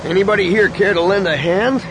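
dry sarcastic call; mock asking for help. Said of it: "Han asked sarcastically".

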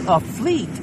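high, loud alarmed cry. Acted. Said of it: "Jaina cried".

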